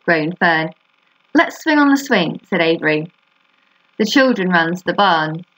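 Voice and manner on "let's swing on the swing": put-on excited boy voice. Avery voiced in story.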